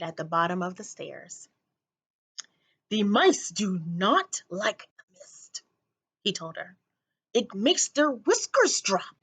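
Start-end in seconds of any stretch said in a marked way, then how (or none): 2.9-9.2 put-on eccentric old man. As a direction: lean in like a crazy old man. Crazy old man's voice.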